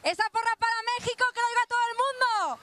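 fast rallying call to the crowd; calling out to fans. Real, not acted. Reporter in the metro urging fans to chant, rallying call. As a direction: whip up the fans, quick and punchy.

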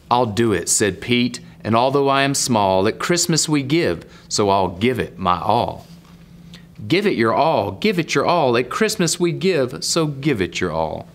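sing-song rhyme, lifting then dropping at the end; story narration. Acted. Reader voices Pete's pledge to give his all, sing-song storytelling. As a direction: lean into the bouncy refrain. Reads rhyming story and refrain.

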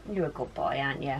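soft dog praise. Real, not acted. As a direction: hush it tenderly to the dog.

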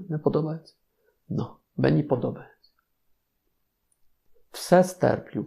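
ordinary talk

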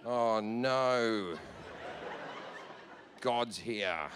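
low, hushed dread. Retold or imitated. Partygoer warning friends God has arrived, hushed dread. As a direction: whisper the bad news with dread. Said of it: "someone would go".

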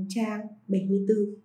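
ordinary talk, nothing marked

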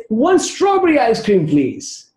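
high-pitched calling-out order; mock shout. Mother calling her order to the ice cream man, mock shout. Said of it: "She shouts and says".

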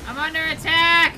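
loud cry for help; alarmed call. Real, not acted. Pirate player calling crewmate under attack. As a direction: call to the crew you're hit.

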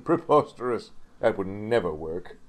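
mildly scornful, haughty dismissal; pooh-pooh the idea; sniffy scorn. Acted. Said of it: "sniffed Gordon".

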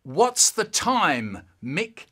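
slow, loud, pointed question; teasing question. A narrator's reading. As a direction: drag it out to tease. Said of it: "my brother suddenly goes".

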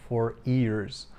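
"for ears" with no y sound at the start; imitated mispronunciation. Reviewer mimicking how the MEP's phrase came out. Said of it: "co bardziej przypominało".

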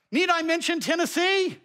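put-on teasing Southern Tennessee accent. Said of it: "That's actually a lovely accent".

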